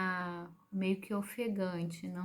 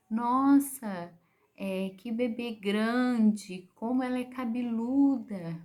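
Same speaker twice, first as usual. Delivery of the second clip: louder, amazed nurse, drawn out slowly; surprised exclamation; 3 semitones higher, 6 dB louder, slower than usual. Retold or imitated. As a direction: gasp at how big the baby is. (exclamação surpresa e mais alta, arrastada)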